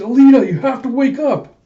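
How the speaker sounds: high, loud plea to wake someone; urgent shout. Acted. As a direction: shout it as if rousing an unconscious friend. Desperate call to unconscious Alita.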